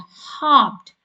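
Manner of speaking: teacher stressing "hopped"; emphatic past form. Shown as a demonstration. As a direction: land hard on "hopped" as the answer. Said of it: "we need to double the consonant".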